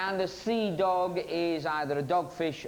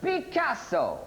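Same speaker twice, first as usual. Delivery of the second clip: put-on light Italian accent, pitched higher; mock Italian accent; 5 semitones higher than usual. Host repeats contestant's answer, lightly put-on Italian accent. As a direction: relish the name in hammed-up Italian. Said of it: "in your best Italian".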